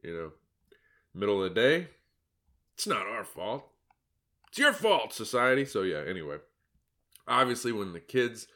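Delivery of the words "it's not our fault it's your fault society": mock blame. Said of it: "mocking absentee parents".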